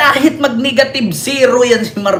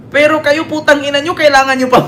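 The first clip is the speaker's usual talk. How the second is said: angry outburst; 7 semitones higher than usual. Real, not acted. Cursing at DDS viewers.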